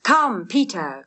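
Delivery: slow call across the ice. Acted. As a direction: call to him from afar. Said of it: "cried Lambert from the line".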